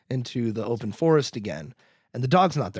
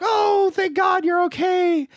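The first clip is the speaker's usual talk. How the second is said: high, drawn-out relieved parent cry; hammed-up high wail of relief; mock relief; 4 dB louder, slower than usual. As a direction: gush it like an overjoyed parent, hammed up. Imitates relieved parents grabbing their son.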